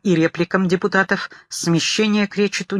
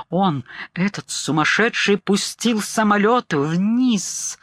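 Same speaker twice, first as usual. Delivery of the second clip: a mild, deflated, shaken report; the voice slumping like wet snow; stunned, drained words; sunken voice; 4 semitones higher, slower than usual. Acted. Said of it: "осевшим, как глыба снега в марте, голосом".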